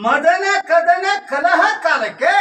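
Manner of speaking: slow, stretched repeat ending on a rise; questioning echo. Acted. Partner echoing the recited verse back, slowly questioning. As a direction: draw out each word, lifting ಕಾಲಕ್ಕೆ into a question.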